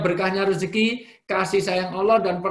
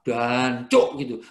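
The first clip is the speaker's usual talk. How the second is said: East Java swear; 3 semitones lower, 3 dB louder, much slower than usual. Retold or imitated. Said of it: "Apalagi kalau Jawa Timur".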